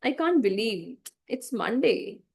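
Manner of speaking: slow, bored sigh of a line. Shown as a demonstration. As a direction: sound utterly bored. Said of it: "if I say in a bored way".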